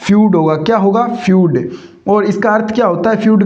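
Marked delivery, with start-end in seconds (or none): 0.1-0.4 फ्यूड said as one syllable, "fyood"; a clear teacher's "fyood" for फ्यूड; correct pronunciation. Shown as a demonstration. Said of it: "इसका correct pronunciation होगा". 1.1-1.7 फ्यूड as a single falling "fyood"; one-syllable model of फ्यूड; correct pronunciation. Shown as a demonstration. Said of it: "इसका correct pronunciation होगा".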